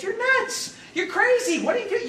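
very high-pitched, incredulous outcry; acted exasperated alarm. Friends telling Jesus he is crazy, acted exasperation.

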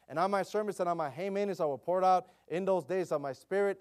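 proclaiming scripture to the congregation; scripture reading. Acted. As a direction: read it out like Bible scripture from the pulpit.

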